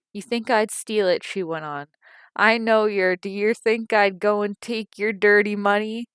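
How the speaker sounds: loud, high, outraged yelling; furious shout. A narrator's reading. Mother shouting at Liza over the missing money, outraged. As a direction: scream the accusation back at her. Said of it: "whirlwind of passion".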